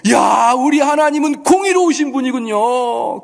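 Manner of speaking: high, slow, drawn-out cry of awe; acted exclamation. Preacher voicing the crowd glorifying God's justice, acted exclamation. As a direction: proclaim it as an amazed crowd. Crowd's imagined praise of God.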